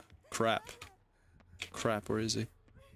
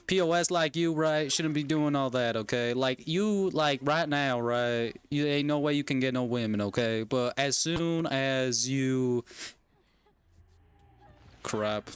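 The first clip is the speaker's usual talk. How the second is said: put-on Texan accent. Parent warning son off drugs, Texan accent. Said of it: "pretend I have a Texan accent".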